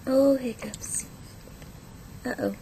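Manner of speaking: breathy whisper. Shown as a demonstration. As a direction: whisper it to the baby. Parent talking to baby with hiccups.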